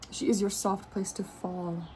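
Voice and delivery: slow, gentle reading of the line; slow soothing oracle read; slow card reading. Acted.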